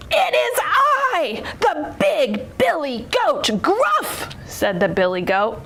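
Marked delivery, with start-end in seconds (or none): 0.1-4.3 big goat's slow, high-pitched bellow; loud as the troll. A narrator's reading. Biggest goat answers the troll, booming slow declaration. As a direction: announce yourself like a huge billy goat. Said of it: "as loud as the troll's".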